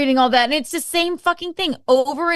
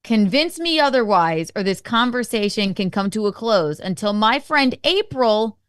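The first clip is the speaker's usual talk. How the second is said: heated read-out message; 5 dB louder than usual. Retold or imitated. Reading his heated message aloud.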